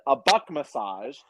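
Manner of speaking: "A buck massage" said slowly, spelling it out; slow, deliberate repeat of "buck massage". Retold or imitated. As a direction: drag out "buck massage" so she gets it. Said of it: "He's like".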